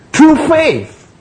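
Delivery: "through faith" lifted high and leaned on; stress on faith. Shown as a demonstration. Preacher stressing faith to the congregation. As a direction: punch "through faith" up high to mark the key word. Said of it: "there is an emphasis on the faith".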